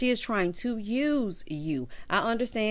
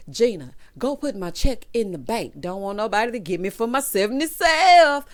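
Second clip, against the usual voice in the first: lightly acted proud sitcom boyfriend, louder at the end; Martin; 5 dB louder than usual. Host quoting sitcom man guarding his check, lightly acted. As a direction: act the sitcom line, building to a loud finish. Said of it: "and he said".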